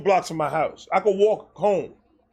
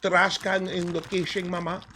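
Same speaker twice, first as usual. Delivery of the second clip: meek compliance; 5 dB quieter than usual. Retold or imitated. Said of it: "I went".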